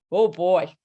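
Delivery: laughing through a wry inner thought. Retold or imitated. Bracing for an angry professor, laughing. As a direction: chuckle as you brace for trouble.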